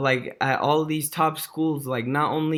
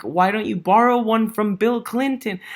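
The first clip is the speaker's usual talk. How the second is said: higher and louder, laughing through it; amused quote reading; 7 semitones higher, 6 dB louder than usual. Retold or imitated. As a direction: deliver the punchline in disbelief. Reading a crude email quote aloud.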